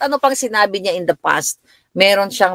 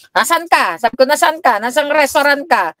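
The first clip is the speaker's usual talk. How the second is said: demanding; 7 semitones higher than usual. Retold or imitated. Mother demanding whereabouts.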